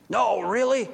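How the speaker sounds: can't believe what he hears, voice lifted; astonished. Acted. Zacchaeus hears surprising news.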